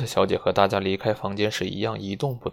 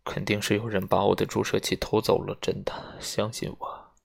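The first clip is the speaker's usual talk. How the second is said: softer pleading fading to near-voiceless at the end; 无助地恳求; helpless; 4 dB quieter than usual. Acted. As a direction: beg them to believe you, running out of strength. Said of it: "无助地说".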